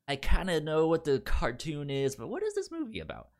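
mock puzzled viewer, pitch jumping high and fast; confused viewer. Host voicing a puzzled newcomer to the film, in a quick high mock question. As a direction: play a baffled fan asking what it's about.

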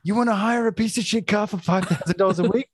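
put-on the cab driver in an Eastern European accent, scoffing at the offer. Host imitates the Eastern European cab driver, mock Eastern European accent. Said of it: "this Eastern European guy or whatever says".

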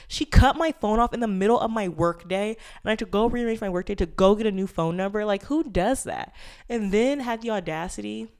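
venting fresh anger at the mother; getting pissed. Real, not acted. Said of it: "this is when my voice changes, and I get pissed".

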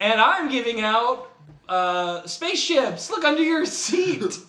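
talk show host. Acted. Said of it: "welcome to my Scientology talk show".

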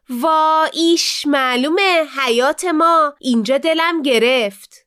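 snooty sneer. Acted. Daughter sneers at the div's yard.

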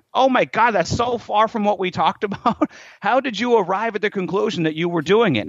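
high-pitched mock dismay; acted disbelief with a touch of laughter; incredulous. Coach seeing a client's breakfast, incredulous.

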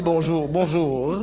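put-on drawn-out bonjour in a light French accent; imitated French accent. Dad copying mom's greeting, imitated French accent. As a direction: copy a French-sounding greeting, slowly. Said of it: "il imite ma mère".

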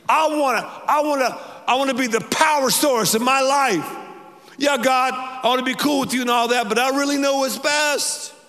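mock the stubborn self; self-willed believer. Pastor mimics a stubborn believer, lightly mocking. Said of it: "I have this Beatle mentality".

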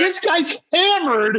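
high, slow, giggling through the words; high, drawn-out laughing impression of the bouncer; laughing quote. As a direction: barely get it out for laughing.

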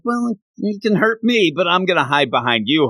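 high-pitched mock protest from a sidekick; Rick. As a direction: lightly act out a timid objection, starting high. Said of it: "Rick is kinda like".

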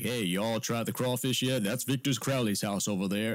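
hammed-up Southern bayou twang; Louisiana bayou accent. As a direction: do a bad bayou tour-guide accent. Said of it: "bayou accent".

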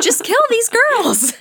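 loud, very high, drawn-out cry; hammed-up high yell, stretched out; exasperated mock outburst. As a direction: blurt it out in joking exasperation. Exasperated joking outburst at the story.

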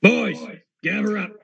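put-on rally the boys with a shout; hobgoblin calling out. Hobgoblin calls his gang.

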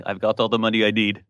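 a weak, barely Irish lilt; self-mocking bad Irish brogue; bad Irish accent. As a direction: attempt an Irish accent and miss. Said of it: "that was my worst Irish accent".

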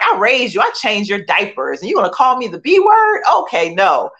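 mock-indignant big sister, rising to a shout; retold angry outburst. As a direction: throw the sister's hurt fury back at her.

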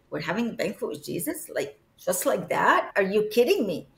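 quick questioning disbelief, rising at the end; incredulous. Retold or imitated. Reacting to the casual banquet invitation, incredulous. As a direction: question it as if you can't believe it. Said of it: "And to me, it was like".

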